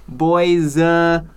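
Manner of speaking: put-on "boys, uh" run together loudly as BOY-zuh; BOY-zuh mispronunciation. Shown as a demonstration. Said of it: "or whatever other weird pronunciation".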